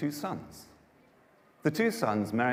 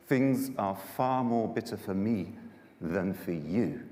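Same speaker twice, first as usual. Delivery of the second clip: slow bitter lament; slower than usual. Acted. Naomi laments her bitter fate.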